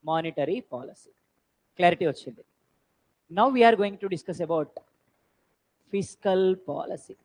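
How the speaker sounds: very slow, each word drawn out; dictating notes. Shown as a demonstration. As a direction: dictate so students can write it down. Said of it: "teacher dictates notes". (నోట్స్ dictate చేస్తున్నట్టు నెమ్మదిగా)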